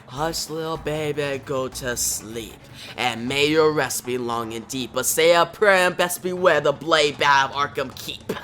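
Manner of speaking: sinister lullaby, lightly chanted; a hint of eerie singsong; lightly voiced creepy madman. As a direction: recite it like a menacing nursery rhyme. Jervis Tech's sinister lullaby.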